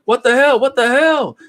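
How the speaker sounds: hammed-up shock; panicked repeated outburst; mock alarm. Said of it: "this guy's like".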